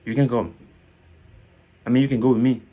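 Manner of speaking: "can" slips by as a short "ken"; don't linger on "can"; quick, light CAN. Shown as a demonstration. Teacher giving learners positive examples, quick light "can". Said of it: "On ne perd pas le temps dessus".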